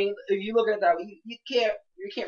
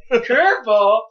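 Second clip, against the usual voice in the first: CURVEBALL said louder with a curving pitch; imitated curving inflection; 3 semitones higher, 6 dB louder, much slower than usual. Co-host teasing the note-taker's inflection, exaggerated curve on CURVEBALL. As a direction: playfully exaggerate the swoop on CURVEBALL. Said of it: "He actually curved curve".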